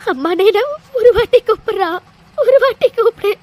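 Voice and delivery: crying as she begs, voice catching; tearful pleading. Acted. Mother begging her son to call her amma, tearful. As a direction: plead through tears for one word.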